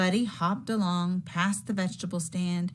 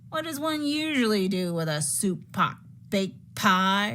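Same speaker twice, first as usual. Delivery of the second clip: not too kindly; 3 semitones higher, 3 dB louder than usual. Acted. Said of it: "not too kindly".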